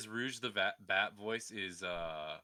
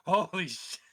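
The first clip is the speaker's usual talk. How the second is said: loud, high shocked gasp of words; shocked exclamation; 8 semitones higher, 10 dB louder than usual. Retold or imitated. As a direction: blurt it out in shock. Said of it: "I was like".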